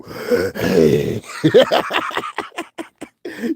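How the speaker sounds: imitated wheeze breaking into laughter; exaggerated labored breath, then cracking up; mock heavy breathing. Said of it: "the breath come through".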